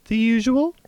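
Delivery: high, bright mock receptionist; lightly voiced cheerful receptionist; chirpy receptionist. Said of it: "She smiles at me".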